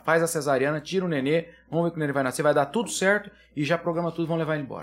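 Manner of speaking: brisk no-nonsense orders from the doctor; firm commands. Retold or imitated.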